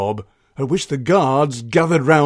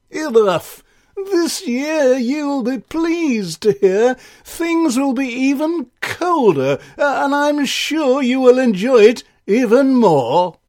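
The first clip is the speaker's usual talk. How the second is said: Ice King voice; 10 semitones higher, 3 dB louder than usual. Acted. Ice King gloats to crowd.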